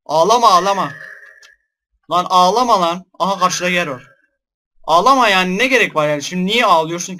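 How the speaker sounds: loud exasperated scolding, "stop crying"; telling the ghost off. Real, not acted. Player yells at a crying ghost, loud and exasperated. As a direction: shout down the crying ghost, half scared.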